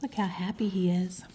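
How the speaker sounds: soft unvoiced whisper. Real, not acted. Reader whispering to the child about the picture. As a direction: whisper it to the listener.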